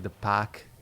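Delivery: "pack" in a Boston accent, r dropped to a flat open a. Shown as a demonstration. Streamer demos Boston speech to chat, "pack" with no r. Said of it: "I can't really do a Boston accent".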